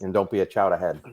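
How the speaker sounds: put-on Boston accent with dropped r's. Shown as a demonstration. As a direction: lay on the Massachusetts townie accent. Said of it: "I am very fluent in Bostonian".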